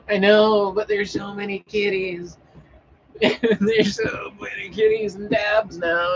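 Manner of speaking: high, loud gushing over kitties; excited squeal. Real, not acted. Gushing to chat about cats and dabs, excited high squeal. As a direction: squeal with glee at all the cats.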